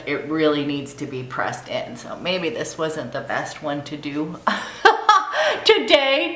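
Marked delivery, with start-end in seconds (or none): 2.0-6.3 laughing. Real, not acted. Laughing at choosing this product.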